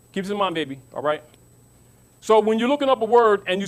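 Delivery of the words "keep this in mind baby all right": softer, tender reminder; gentle to children. Shown as a demonstration. Preacher softly reminding the children to remember. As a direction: lean in and soothe the little ones.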